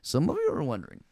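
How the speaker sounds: attempted Indian accent, admittedly not very good. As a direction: have a go at a mock Indian accent. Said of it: "Try Indian".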